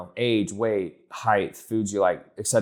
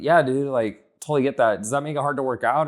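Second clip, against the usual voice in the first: higher, easy buddy-to-buddy sympathy; casually agree, then slip the question in; conversational bar chat; 4 semitones higher, 4 dB louder than usual. Acted. Coach chats with a friend at a bar, casual and conversational. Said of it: "if I was sitting with you at a bar".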